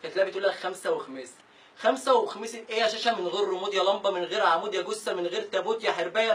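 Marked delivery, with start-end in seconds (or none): 0.5-1.3 mimicking girl. Girl's mock reply quoted.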